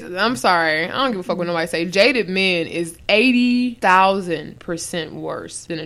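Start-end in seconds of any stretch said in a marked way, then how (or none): none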